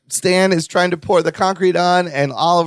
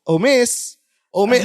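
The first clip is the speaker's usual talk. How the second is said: imitating Stan; 7 semitones higher than usual. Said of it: "you hear him go".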